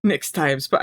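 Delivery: put-on low, failed Russian accent try; abandoned attempt at a Russian accent. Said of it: "I can't do a Russian accent".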